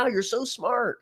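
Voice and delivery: high, mocking fake admiration; sarcastic awe. Speaker mocking absent critics' cleverness, high sarcastic awe. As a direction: gush with scornful fake wonder.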